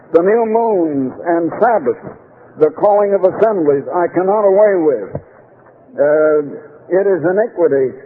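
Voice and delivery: solemn pulpit reading of Isaiah; scripture reading. Acted. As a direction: read the verses with weight.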